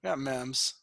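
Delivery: "memes" pronounced "mems", short e; misspelling echoed. Pretend. Echoing the co-host on the misspelled channel, "memes" said as "mems". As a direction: make "memes" rhyme with "gems". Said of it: "Memes sounds like members".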